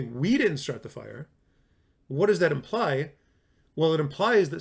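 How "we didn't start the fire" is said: "We" stretched at the front, slower line; stress on WE. Shown as a demonstration. Teacher repeating the same words for students, stress on "We". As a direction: put the weight on "We". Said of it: "but if you say".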